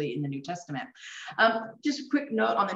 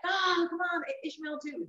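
pleading Abraham; 11 semitones higher, 4 dB quieter, slower than usual. Retold or imitated. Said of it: "he's like".

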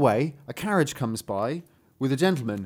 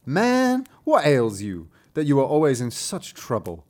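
inquiring dwarf; 4 dB louder than usual. Acted. Dwarf asking Hans what troubles him, inquiring character voice. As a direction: call out to a troubled traveller as the dwarf.

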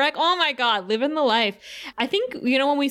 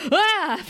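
short, higher-pitched startled cry; startled yelp; 9 semitones higher than usual. Retold or imitated. Xander interrupted by a demon appearing, startled yelp. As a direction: cut off with a sudden "ah".

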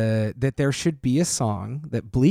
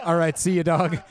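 laughing; 5 semitones higher than usual. Retold or imitated. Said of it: "And then she's like".

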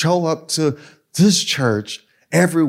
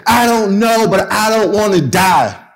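higher, mild mock tearful plea; imitating weeping kids; 4 semitones higher, 4 dB louder than usual. Pastor voicing crying kids afraid to die, mildly tearful. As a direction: echo the scared kids, a touch tearful. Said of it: "kids are weeping and crying and saying".

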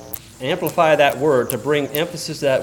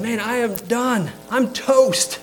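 casual modern paraphrase; 10 semitones higher, slower than usual. Retold or imitated. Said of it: "is how we would say it".

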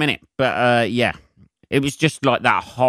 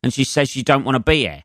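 retold fuming rant, pitch jumping higher at the start; stewing in it, muttering curses under breath; exasperated inner rant; 3 semitones higher than usual. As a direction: swear at the situation in disbelief. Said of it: "And I'm sitting there going".

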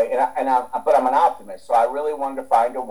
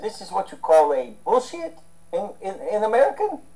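higher Russian accent imitation; 8 semitones higher than usual. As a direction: quote the friend in a Russian accent. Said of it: "in his Russian accent".

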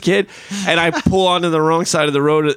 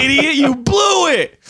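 mock scolding dad; 13 semitones higher, slower than usual. Dad scolding in retold story.

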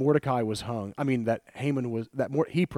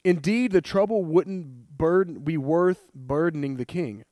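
higher, rushed then slowing plea to the king; paraphrased queen's plea; 5 semitones higher than usual. Retold or imitated. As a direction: speak up earnestly as Esther before the king. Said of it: "So she said".

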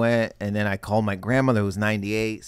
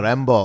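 "Rambo" hit louder with pride; extra oomph on Rambo; 2 semitones higher, 7 dB louder than usual. Shown as a demonstration. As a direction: punch "Rambo" like a hero's name. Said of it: "they put an extra oomph in Rambo".

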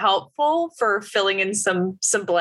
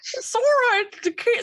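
much higher squawky duck voice; Donald Duck voice. Pretend. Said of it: "sound like I'm wearing a very thick retainer".

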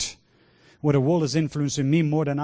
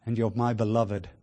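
tender Father's voice; 3 semitones lower, slower than usual. Retold or imitated. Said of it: "the voice of the Father saying".

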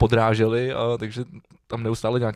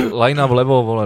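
louder, barked instruction; demonstrated yell; 7 dB louder than usual. Shown as a demonstration. Goalie directing his players, demonstrated shout. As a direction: call out a position to the defence. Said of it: "taky řvu, vole".

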